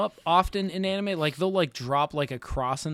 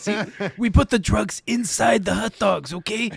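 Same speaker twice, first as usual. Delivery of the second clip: mock mobster. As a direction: spell out the scheme like a mock mob boss. Mobster explaining the scheme.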